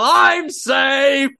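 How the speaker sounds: loud high yell. Pretend. Running at children in the park, yelling. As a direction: yell it bounding toward the kids. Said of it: "you just yell".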